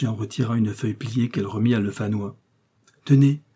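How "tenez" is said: shaky, emotional offer; trembling, handing over the paper. A narrator's reading. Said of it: "d'une voix tremblante".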